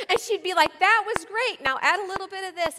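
loud, high, laughing quote; giggly loud quote; laughing through the words. Real, not acted. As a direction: still laughing as you quote her. Laughing while quoting Rosie.

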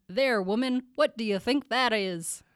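lightly voiced cranky old uncle; Jasper. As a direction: quiz the niece like a crusty old-timer. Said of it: "you can be Laura".

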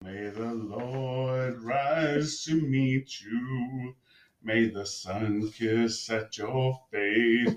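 very slow solemn blessing. Acted. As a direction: intone it like a prayer. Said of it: "Good Lord, what's happening right now?".

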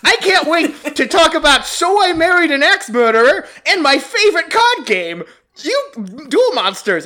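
put-on cheerful Brooklyn kid voice; Brooklyn accent. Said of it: "a Brooklyn accent?".

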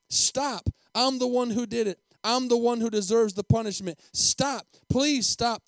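loud, high, desperate pleading; sobbing plea. A narrator's reading. Boy confesses to save the principal, desperate sobbing plea. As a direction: beg at full voice, as a distraught boy. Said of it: "the boy sobs".

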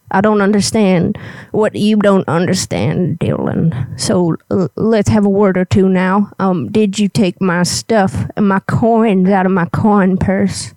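lightly voiced cranky old granny; a hint of a testy old lady. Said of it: "I gotta get my old granny voice up here".

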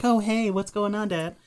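high, easygoing cat voice; cool cat. Retold or imitated. Voicing the cat picked back up by Dad, cool and friendly. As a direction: greet Dad as a contented cat. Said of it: "And she was cool".

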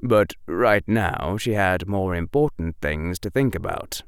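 plain reading voice

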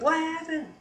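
high-pitched urgent cry; high, panicked retold question; alarmed question. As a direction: imitate a husband's alarmed question. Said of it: "she's hysterical. He's like".

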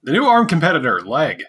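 playful commercial read with swooping pitch; mock ad announcer. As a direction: pitch it like a fake product trailer. Mock ad for invented product.

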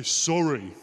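drawn-out sorry, imitating a child told to mean it; mock-earnest child's sorry; exaggerated meant apology. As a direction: stretch out the apology as if trying to sound sincere. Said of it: "Say it like you mean it".

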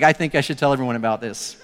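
quick words through laughter; laughing. Retold or imitated. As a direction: giggle it out fast, amused. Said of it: "in my office laughing".

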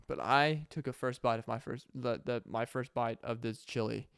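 quietly moved, holding back tears; real emotion. Real, not acted. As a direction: let the memory catch in your throat. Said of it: "I'm getting emotional".

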